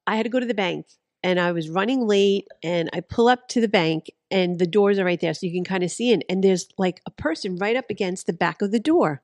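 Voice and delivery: muffled behind a hand; talking into cupped hand; hand over mouth. Real, not acted. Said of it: "You're talking into your hand".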